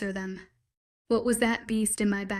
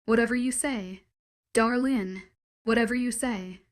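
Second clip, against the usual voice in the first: sarcastic. Acted. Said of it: "she said sarcastically".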